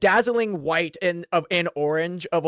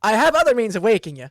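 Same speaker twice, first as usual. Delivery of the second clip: sweetly menacing; 3 semitones higher, 6 dB louder, faster than usual. Acted. Cleric holds up a mace.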